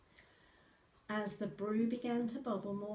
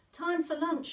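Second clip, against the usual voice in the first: hearty farmer's call, higher and louder; farmer calling lunch; 9 semitones higher, 9 dB louder than usual. A narrator's reading. Farmer calls his family in for lunch, hearty. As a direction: call everyone in from the field. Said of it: "he said".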